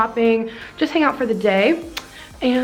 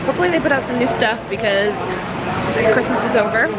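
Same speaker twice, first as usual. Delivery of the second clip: talking while chewing gum; words round a wad of gum; faster than usual. Real, not acted. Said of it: "sorry for the gum chewing".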